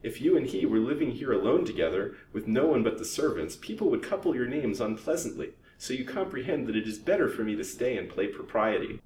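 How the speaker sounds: high-pitched pointed explanation. A narrator's reading. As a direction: spell it out pointedly to a rival. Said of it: "said Ada pointedly".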